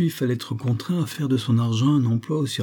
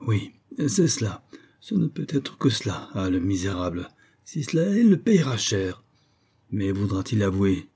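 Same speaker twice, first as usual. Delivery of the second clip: scheming to himself. Acted. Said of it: "se répétait à lui-même".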